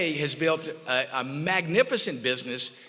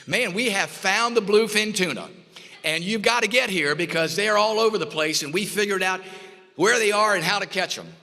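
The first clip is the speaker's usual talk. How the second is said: higher and brighter with retold excitement, pushing forward; thrilled news about the tuna, urging him to hurry; excited; 4 semitones higher than usual. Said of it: "he was excited".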